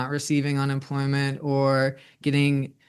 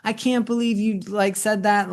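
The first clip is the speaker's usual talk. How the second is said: higher, mock-appalled gasp of a mom; shocked mom; 5 semitones higher than usual. Mom reacting to her daughter's cursing, mock shocked. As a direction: play the scandalised mother, lightly. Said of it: "would, like, fall into".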